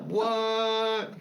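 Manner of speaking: high, loud disbelieving what through laughter; dad hearing the gum came from under the table, stunned; shocked what. Real, not acted. Dad's shocked reaction.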